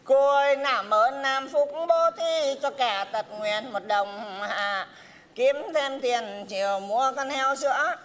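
slow pitiful begging voice; beggar's plea. Acted. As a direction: whine slowly for alms. Beggar pleading to passerby. (giọng ăn mày van xin chậm rãi)

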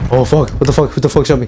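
real jolt of surprise, yelled out; shocked shout. Real, not acted. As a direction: caught off guard and yelling. Sudden death in a match.

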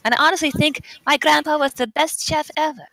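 light put-on German accent. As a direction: read aloud with an attempted German accent. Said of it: "Everybody has to do their best German accent".

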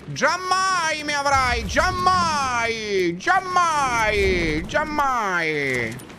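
slow hammy declaiming, fading out; theatrical defiance. Pretend. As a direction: ham up the old-fashioned vow. (sfida teatrale che si spegne)

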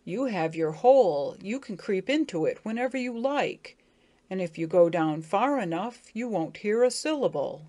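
a hint of a pleading beetle; earnest, urging suitor; Bobby's voice.

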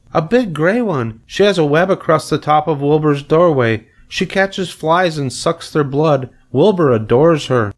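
put-on high, enthusiastic little girl; Fern. A narrator's reading. Fern describes the spider to her mother, eager child.

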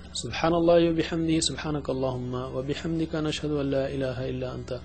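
quick, soft murmured dua; closing prayer. Real, not acted. Teacher closing the lesson with a fast, quiet prayer. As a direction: rattle off the familiar prayer quietly.

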